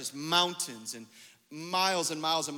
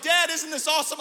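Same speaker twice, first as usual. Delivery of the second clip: high, loud, excited child imitation; excited kids; 9 semitones higher, 8 dB louder than usual. Kids to dad in the tent, excited. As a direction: imitate kids thrilled with their campout.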